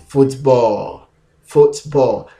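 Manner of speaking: football said in the alternative way; word demo. Shown as a demonstration. Teacher modelling the alternative football. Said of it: "alternative pronunciation".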